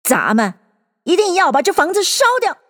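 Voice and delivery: a hint of firm character voice, rising high; Rabbit's voice. A narrator's reading. Rabbit resolving to burn the house down, emphatic. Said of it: "那个兔子的声音又说道".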